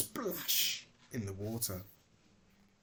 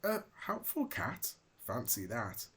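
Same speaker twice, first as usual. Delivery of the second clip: squeaky mouse. Acted. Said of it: "squeaked a mouse".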